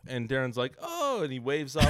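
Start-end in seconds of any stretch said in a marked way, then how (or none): 0.8-1.2 very high, light oh; breezy, clueless oh; mock oblivious oh; airy oh. Darren's oblivious reply.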